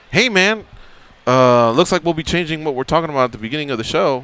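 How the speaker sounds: a hint of Josh on the phone; imitating Josh. Host mimics producer Josh's phone call, lightly voiced. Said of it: "I don't sound like that".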